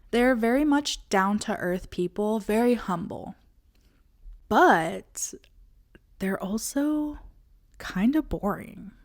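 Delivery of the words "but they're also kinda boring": whispered aside. Acted. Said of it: "whispered aside".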